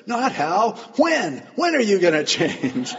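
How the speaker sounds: high, punchy, forceful comeback; blunt challenge. Retold or imitated. Pastor pressing the husband to change, blunt challenge. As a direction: punch out each question, loud and high.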